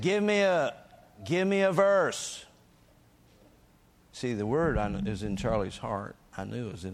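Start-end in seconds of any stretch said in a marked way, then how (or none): 0.0-2.4 loud, high, drawn-out shouted command; screamed demand. Retold or imitated. Minister demanding scripture from a screaming patient, screamed demand. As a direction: holler it to break through his pain. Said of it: "and I screamed at him".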